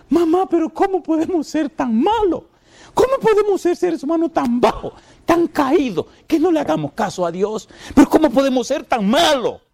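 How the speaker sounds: very high, wailing lament; crying lament. Retold or imitated. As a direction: cry it out to mother in despair. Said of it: "él lloraba y se daba rabia".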